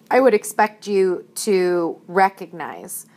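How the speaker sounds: speaking with the hiccups; talking through hiccups; hiccuping. Real, not acted. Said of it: "sorry, I have the hiccups".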